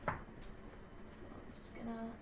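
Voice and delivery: hushed whisper while sorting books. Real, not acted. Girl sorting her book pile, whispering to herself. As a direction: keep it under your breath.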